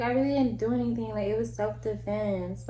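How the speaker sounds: soft, small, playing innocent; innocent girl voice. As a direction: act sweet and blameless. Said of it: "putting on my little innocent girl".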